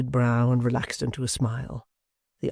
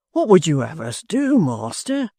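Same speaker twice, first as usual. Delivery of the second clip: a raised, pleading cry, higher and louder; cried out; 5 semitones higher, 4 dB louder than usual. A narrator's reading. Hugh cries out to Gashford, raised and pleading. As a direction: demand an answer from the master. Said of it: "cried Hugh".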